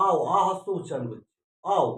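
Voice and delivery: আও with the final ও only half sounded; আও with a clipped half-vowel ending; half vowel demo. Shown as a demonstration. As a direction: say আও letting the ও glide off short. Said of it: "তখন কিন্তু আমরা ও উচ্চারণ করছি না".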